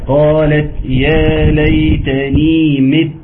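مت ending on a pressed doubled ت; pressed stop. Shown as a demonstration. Teacher showing the stop on مت, pressed ت. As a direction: stop firmly on the ت of مت. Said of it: "فمت دي المفروض إيه".

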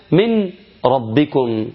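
"من ربكم" slow, noon vanished into a doubled ra; Quranic idgham. Shown as a demonstration. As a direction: recite slowly, swallowing the noon into the ra. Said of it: "كلمة". (إدغام النون في الراء بتلاوة بطيئة)

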